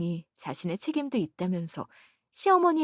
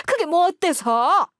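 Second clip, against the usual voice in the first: higher, slow, on the edge of tears; tearful repeat; 9 semitones higher, 7 dB louder, slower than usual. Acted. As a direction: repeat it slowly, voice welling up. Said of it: "하면서 시어머니께서 눈물바람을 하시더군요". (울먹이며 천천히)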